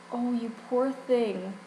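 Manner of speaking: slow, cooing imitation of a kindly pharmacist; sweet sympathy. Pharmacist pitying a new customer, sweetly sympathetic. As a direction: imitate gentle pity, drawn out. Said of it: "like, this sweet woman".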